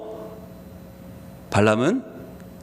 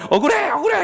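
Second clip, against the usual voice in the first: much higher, whining protest; whiny complaint; 11 semitones higher than usual. Acted. The wronged donkey whines at its master. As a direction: whine that it's so unfair.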